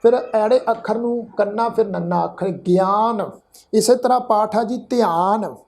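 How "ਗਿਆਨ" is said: ਗਿਆਨ said "gi-aan", short i then long aa; half yaiya as sihari. Shown as a demonstration. Teacher showing the half-yaiya rule, ਗਿਆਨ as "gi-aan". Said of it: "ਇੱਥੇ ਪਾਠ ਉਚਾਰਨ ਕਰਾਂਗੇ".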